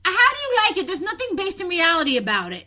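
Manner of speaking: high, loud disbelief; exasperated and incredulous; incredulous protest. Real, not acted. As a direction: push back, voice jumping up loud. Incredulous at co-host liking it.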